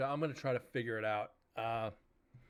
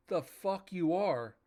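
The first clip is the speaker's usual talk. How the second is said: mock indignant retort; 5 semitones higher, slower than usual. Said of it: "Of course, I didn't say it like that".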